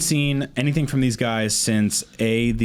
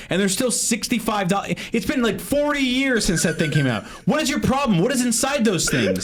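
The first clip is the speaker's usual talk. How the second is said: exasperated high-pitched rant; angry rant; 6 semitones higher than usual. Real, not acted. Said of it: "because you're so angry".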